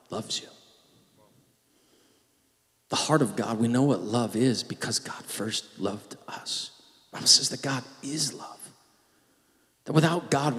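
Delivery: gentle pastoral murmur; soft intimate preaching. Acted. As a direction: lean in and speak softly to the hurting.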